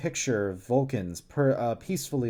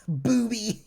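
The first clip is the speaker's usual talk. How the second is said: laughing; 9 semitones higher than usual. Real, not acted. Cracks up mid-word.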